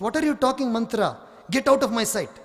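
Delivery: a touch of a queen ordering her out; queen dismissing maid. Acted. Kaikeyi ordering her maid away, mock indignant.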